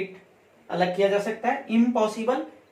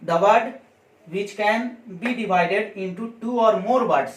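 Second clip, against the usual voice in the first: slow, word-by-word dictation pace; much slower than usual. Shown as a demonstration. Teacher dictating a definition to students, slow and deliberate. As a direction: spell it out slowly so students can write.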